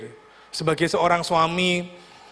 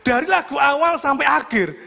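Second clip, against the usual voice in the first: ordinary talk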